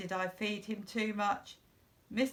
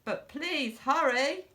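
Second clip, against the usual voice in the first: urgent plea; 6 semitones higher, 4 dB louder than usual. A narrator's reading. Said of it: "pleading boy".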